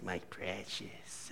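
low, slow, hushed creature voice; drawn-out, very soft obsessive murmur; wretched creature. Acted. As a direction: imitate a wretched, covetous little creature. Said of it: "that little wretched man from Lord of the Rings".

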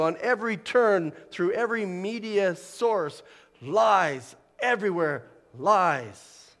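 emphatic preaching, key words punched out; impassioned preaching. Real, not acted. Preacher warning that the world tells lies, impassioned preaching. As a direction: press the warning hard on each phrase.

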